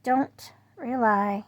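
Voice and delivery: slow, deliberate warning; lightly voiced grandfather's caution; quoting grandfather. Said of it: "He's like".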